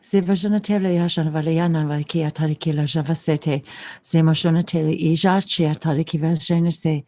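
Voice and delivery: even, flowing chant of invented syllables; trance-like channeled recitation; light language channeling. Real, not acted. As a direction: intone mystical syllables in an unbroken stream.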